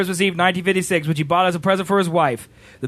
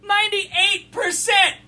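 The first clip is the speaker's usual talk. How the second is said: mock amazement; 10 semitones higher, slower than usual.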